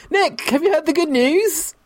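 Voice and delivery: very high, slow, put-on zealot voice; mock evangelist. Co-host pretending to convert Nick, high mock-evangelist voice.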